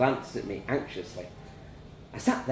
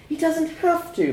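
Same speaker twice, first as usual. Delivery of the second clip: high, loud scream at the father; 6 dB louder than usual. A narrator's reading. Mother to the father, screaming high and loud. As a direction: scream it in his face. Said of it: "my mum was screaming".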